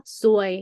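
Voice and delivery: ซวย on a level middle tone. Shown as a demonstration. Tutor showing a Thai learner the word for bad luck, middle tone. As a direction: keep ซวย flat, neither rising nor falling. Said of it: "it middle tone".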